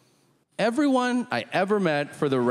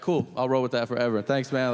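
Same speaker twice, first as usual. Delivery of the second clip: lazy dude voice; 6 semitones lower than usual. Retold or imitated. Dude accepting a rumor unquestioned.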